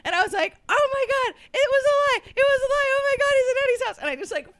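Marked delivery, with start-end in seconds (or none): 0.7-4.0 high, fast panicked cry; panicked blurting. Retold or imitated. Kid confessing the lie in panic.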